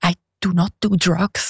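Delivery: put-on thick Swiss accent speaking English. Speaker retells their words to a neighbor at a New York welcome dinner; strong Swiss accent. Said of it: "so mit dem richtigen Schweizer Akzent".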